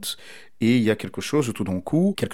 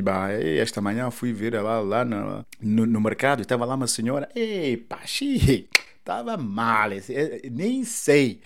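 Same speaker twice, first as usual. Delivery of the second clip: Mozambican Portuguese. Shown as a demonstration. Retelling a supermarket encounter as a Mozambican would, musical Mozambican accent. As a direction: switch into relaxed Mozambican Portuguese with musical fillers. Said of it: "si je dis".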